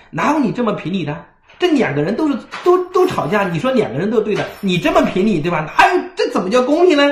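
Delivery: rising outrage at the unfair ruling; indignant protest. Retold or imitated.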